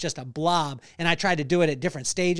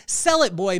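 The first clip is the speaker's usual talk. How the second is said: father's firm three-word advice, pushed out; emphatic quote; 4 dB louder than usual. Retold or imitated. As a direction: stress Sell, then drop on boy. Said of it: "those three words that he said".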